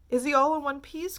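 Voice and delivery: anxious cry. A narrator's reading. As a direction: plead to know. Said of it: "cried Missus T V".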